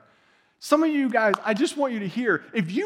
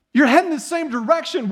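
"You're heading the same direction" much louder and higher, punched; emphatic repeat; 7 semitones higher, 7 dB louder than usual. Shown as a demonstration. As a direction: belt the repeat out, hitting "You're". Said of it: "And say it like this".

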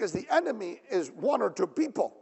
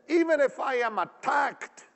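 bold, unyielding declaration; in-your-face confidence. Acted. Preacher voicing David under attack, in-your-face confidence. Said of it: "Isn't that in your face?".

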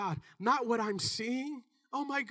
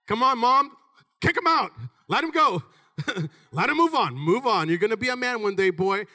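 urging shout; 6 dB louder than usual. Real, not acted. Preacher urging mothers to let sons go, loud.

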